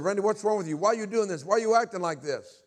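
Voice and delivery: high, loud pleading questions; retold distraught mother. Crying mother confronts son, acted distraught plea. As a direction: imitate an upset mom pleading. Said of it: "my mom was in the living room crying".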